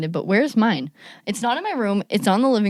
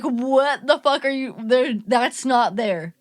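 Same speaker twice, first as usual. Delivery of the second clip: incredulous; 5 semitones higher, much slower than usual. Retold or imitated. Friends disbelieving.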